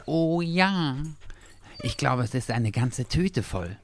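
high, slow, panting dog voice; excited gasping. A narrator's reading. Dachshund sniffing a bag full of pastries, gasping. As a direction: gasp it out high between eager breaths. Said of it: "japste Dackel".

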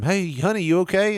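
high-pitched mock wife checking in; calling up. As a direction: call upstairs to your husband, voice lifted high. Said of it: "she calls up to him".

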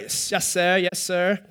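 lightly drawn Southern "Yes, sir"; Southern accent. Shown as a demonstration. Pastor showing how they answer in the South, light Southern accent. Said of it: "That's how they say it in the South".

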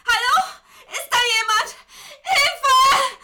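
high, loud, frantic calls for help; panicked cries for help. Acted. Chained captive cries out in panic for help. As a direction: scream for help in panic, voice cracking. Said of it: "ich begann panisch zu werden".

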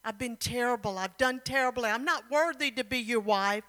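mildly acted distressed confession; a touch of anguish, no real sobs; bitter crying, understated. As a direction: plead unworthiness in a hurried lament. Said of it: "She cried bitterly".

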